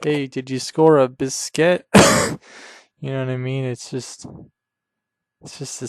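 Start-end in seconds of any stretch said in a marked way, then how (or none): 0.0-1.9 lightly put-on Irish accent with a rising question; a faint Irish lilt on "biscuit"; mock Irish accent. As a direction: ask it like a joking Irish mate.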